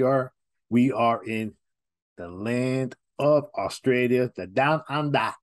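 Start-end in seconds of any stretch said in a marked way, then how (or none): 2.2-5.3 a weak, lightly put-on Australian accent. Vlogger announcing he's in Sydney, weak attempt at an Australian accent. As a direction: try an Aussie lilt and not quite land it. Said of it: "I don't have the accent".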